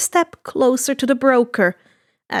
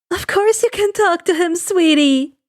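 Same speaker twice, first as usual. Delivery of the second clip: gentle mother; 6 semitones higher than usual. Acted. Inko voice.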